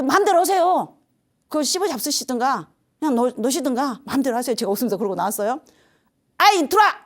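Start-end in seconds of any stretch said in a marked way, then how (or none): 0.0-4.5 loud, high-pitched mock defiance; acted-out "do as you please" outburst; defiant retort. Retold defiant retort to landlord. 6.4-6.9 loud, high acted-out bellow; sudden high yell, in retelling; shouted summons. Landlord calls the speaker back.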